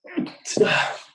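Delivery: a sudden breathy sneeze; sneezing. Real, not acted. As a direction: let out a real sneeze mid-sentence. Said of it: "Sorry, I'm gonna sneeze".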